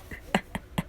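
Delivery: soft trailing chuckle, put on; a quiet prankster's snicker; acted laugh. Deku chuckles softly after fooling everyone, mischievous. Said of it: "he just starts laughing".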